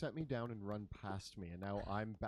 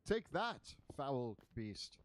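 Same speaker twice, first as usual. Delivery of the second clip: higher, punched 'take that'; mock-heroic taunt; 3 semitones higher, slower than usual. Player taunts the cube after hitting it, mock-heroic. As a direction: hurl a heroic battle taunt.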